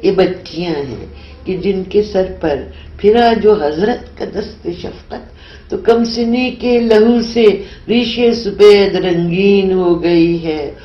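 measured, solemn Urdu recitation; poem recital. Acted. Poet reciting her nazm to the interviewer, solemn recital. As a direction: recite each line like a verse being read aloud.

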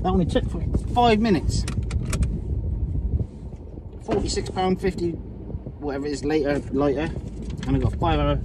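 slurred from anaesthetic; numb mouth. Real, not acted. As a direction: lips half numb. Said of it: "side of me face is numb".

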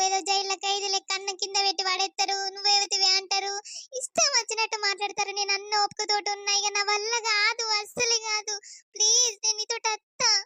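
crying on the phone. Acted. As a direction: pour out the hurt between sobs. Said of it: "ఎన్నడు గింత ఘోరంగా ఏడవలేదు నువ్వు".

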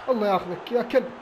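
ordinary talk

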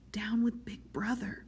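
slow, furtive whisper; sunk voice, whisper. A narrator's reading. Parsons repeats forbidden words to Winston in a sunken whisper. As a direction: whisper it like an obscenity you're obliged to utter. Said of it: "He sank his voice".

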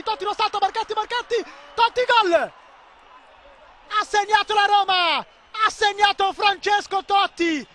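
rising, then long slow goal shout; goal call. Real, not acted. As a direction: build up to the goal, then draw it out.

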